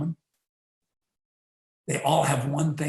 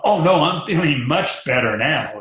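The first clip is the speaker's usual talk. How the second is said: a louder, eager burst of instant recovery; lightly hammed-up eager child; eager kid; 6 dB louder than usual. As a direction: kid insisting he's fine now to go. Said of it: "same kid".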